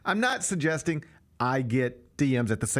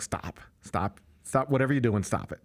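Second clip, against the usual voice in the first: lightly voiced LeBron, hushed and dismissive; imitating LeBron; 5 semitones lower than usual. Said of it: "And LeBron's like".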